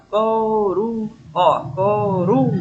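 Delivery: "coru-" drawn out, climbing on "ru"; "coru-" held up on a stressed "ru"; stress on middle syllable. Shown as a demonstration. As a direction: stretch "coru-" and lift the "ru". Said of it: "subi, já. Aí desci".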